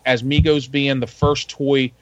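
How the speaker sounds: words over knocks on the table; hitting the table while talking; banging the desk. Real, not acted. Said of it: "Quit hitting your table".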